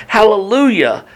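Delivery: high-pitched, read-aloud cry of praise; mild shout. Acted. Heavenly crowd praising as the smoke rises, mild read-aloud shout. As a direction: call it out high without real force. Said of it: "And they shouted again".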